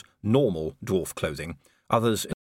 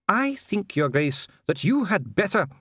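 dwarf official; 11 semitones higher than usual. Acted. Dee slumped, addressing Vimes.

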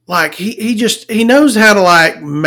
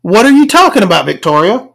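higher, quick mock confusion; baffled listener; 3 semitones higher than usual. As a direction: ask it like a puzzled viewer. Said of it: "you're probably like".

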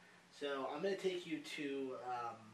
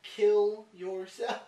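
mock host question; 5 semitones higher, 11 dB louder, much slower than usual. Mock outro question to viewers.

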